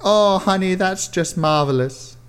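high, slow gushing sweetness; doting girlfriend. Acted. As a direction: coo it out proudly. Alison's doting reply.

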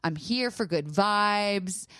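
slow, overly polite request; sweetly cordial, drawn out; mock polite. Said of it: "I was being very cordial".

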